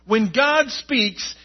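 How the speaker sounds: proclaiming to a congregation with conviction; emphatic preaching. Real, not acted. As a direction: preach it with punched key words. Preaches with rising force.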